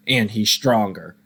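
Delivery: slow, emphatic stronger with feeling; emotional emphasis. Shown as a demonstration. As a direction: lean into stronger, slowly and with real emotion. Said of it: "the way that I said stronger had more emotion".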